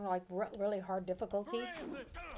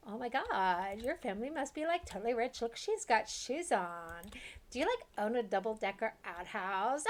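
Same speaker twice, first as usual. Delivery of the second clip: put-on Valley Girl voice. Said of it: "those people".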